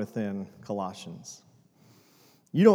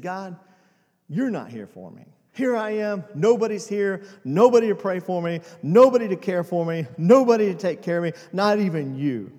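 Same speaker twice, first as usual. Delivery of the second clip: despairing cry to God; 4 semitones higher, 8 dB louder than usual. Retold or imitated. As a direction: cry out to God louder with every line, feeling abandoned. Desperate prayer in waiting room.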